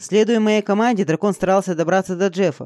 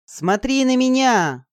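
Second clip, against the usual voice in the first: slow, higher commanding call; booming voice; 7 semitones higher, slower than usual. A narrator's reading. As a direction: boom it out like through speakers. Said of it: "неестественно громкий, как из динамиков".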